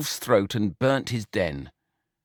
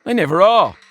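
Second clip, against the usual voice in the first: higher, leering swagger; a boastful, randy pig savouring it; lecherous brother pig; 4 semitones higher, 4 dB louder than usual. A narrator's reading. George bragging to his brother about wakes, leering.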